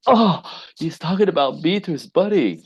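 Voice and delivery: voicing the wife. Wife overhears, voiced by teller.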